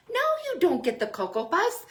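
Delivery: high, amused no; laughing refusal. Retold or imitated. Parent refusing child's cereal, laughing. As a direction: laugh while saying no.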